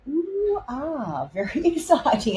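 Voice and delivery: high, drawn-out ooh, then a keen remark; an excited ooh and ah over what turns up. Real, not acted. Weather presenter spotting possible rain for the southeast, excited. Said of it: "I'm getting excited by this".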